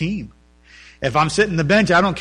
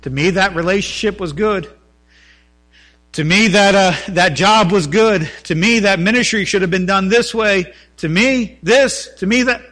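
insistent complaint; 3 semitones higher, 5 dB louder than usual. Retold or imitated. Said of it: "you gotta be like".

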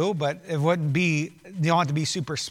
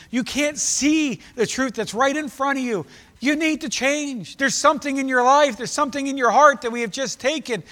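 urgent, slightly raised sermon exhortation; forceful preaching; 7 semitones higher, 6 dB louder than usual. Acted. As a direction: plead with hard hearts to pay attention.

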